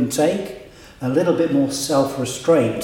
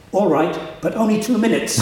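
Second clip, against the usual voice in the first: laughing punchline; 8 semitones higher than usual. Real, not acted. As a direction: quote pushed out high through laughter. Punchline of retold anecdote.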